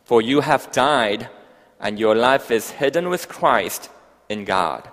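slow, emphatic Bible reading; solemn, spaced-out proclamation of scripture. Real, not acted. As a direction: read the verse out deliberately, phrase by phrase. Reads scripture aloud.

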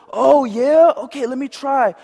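high, loud, tempted reply; eager dupe. Acted. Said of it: "I'm gonna do different voices".

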